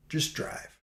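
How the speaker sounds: whispered "Just drive," under the breath. Shown as a demonstration. Narrator repeats advice in a whisper. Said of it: "don't try to talk him into it".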